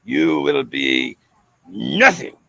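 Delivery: peer over the glasses and crush him; stern teacher. Retold or imitated. Teacher looks up over her glasses at the boy, a low scornful verdict.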